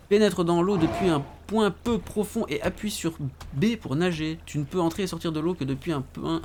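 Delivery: lecture à voix haute. Acted. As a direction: lecture d'un tutoriel, plus haut perchée. Reads the game's tutorial aloud. (lecture à voix haute d'une consigne de jeu)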